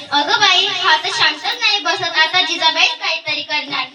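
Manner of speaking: ordinary talk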